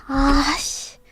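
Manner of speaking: whispered half-swear; dad's muttered curse. Retold or imitated. Dad cursing under his breath at the TV, whispered. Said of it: "But then he goes".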